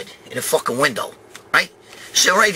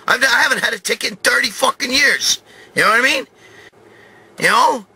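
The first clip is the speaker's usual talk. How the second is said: higher, exasperated pleading to the cop; indignant protest; 7 semitones higher than usual. Retold or imitated. To the trooper, denying he speeds, indignant and high. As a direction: insist you're innocent, all worked up.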